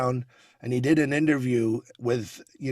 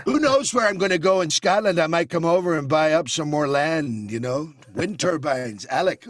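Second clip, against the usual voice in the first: Trump impression. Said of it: "And then you've got the Donald".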